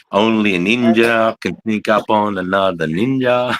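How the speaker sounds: slow, solemn put-on sage voice; mock wise master. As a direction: intone it like a kung fu film master. Mock proverb about ninjas.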